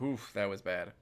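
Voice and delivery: regretful memory. Shown as a demonstration. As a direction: wince at the memory. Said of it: "or, like".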